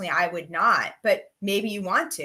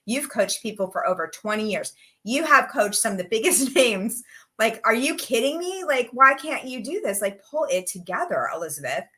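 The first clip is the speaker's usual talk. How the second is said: retold exasperated scolding, rising on the questions; impatient, frustrated husband; 2 semitones higher than usual. Husband scolding his wife over her job search, mock impatient. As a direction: imitate a husband losing patience, mildly. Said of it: "he got very impatient with me and frustrated".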